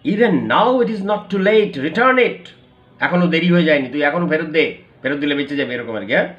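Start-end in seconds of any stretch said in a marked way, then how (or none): 0.1-4.8 stern urging. Acted. Inspector urging return.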